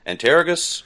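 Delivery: "Antergos" stressed on the middle, "an-TER-uh-gus"; varied pronunciation. Shown as a demonstration. Joking over distro names, "Antergos" stressed as "an-TER-uh-gus". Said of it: "we laugh about that all".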